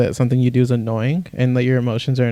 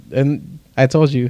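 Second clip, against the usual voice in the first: usual speaking voice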